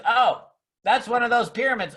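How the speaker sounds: hammed-up scoffing imitation; mocking bad act. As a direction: overact a naysayer spotting something dodgy. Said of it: "always do it with some bad act".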